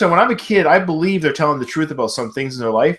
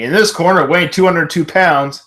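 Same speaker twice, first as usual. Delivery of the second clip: announcer voice; 2 semitones higher than usual. Retold or imitated. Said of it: "the announcer's about to say".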